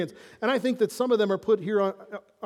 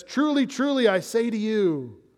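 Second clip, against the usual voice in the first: Jesus speaking; 3 semitones higher than usual. Retold or imitated. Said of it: "Or when Jesus says".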